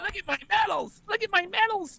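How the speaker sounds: mocking put-on girly voice, very high pitched. Picking up a joke, the speaker does a mocking girly voice. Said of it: "let me try to talk like a girl".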